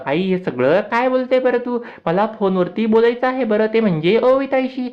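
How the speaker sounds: put-on little boy Abir. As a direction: lift the voice high for the small boy. Young Abir voiced in recap.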